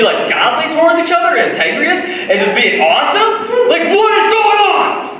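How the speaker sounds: mock jealous believer, rising to a cry; whiny envious complaint. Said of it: "we're going".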